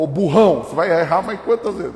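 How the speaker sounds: loud mocking jeer at the driver; insulting GPS voice. Funny Waze voice insulting the lost driver. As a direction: taunt the driver like a rude joke voice. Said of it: "te ofende".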